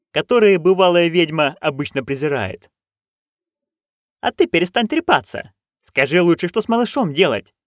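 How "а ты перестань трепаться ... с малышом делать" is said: snapping. Acted. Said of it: "огрызнулась нянюшка Як".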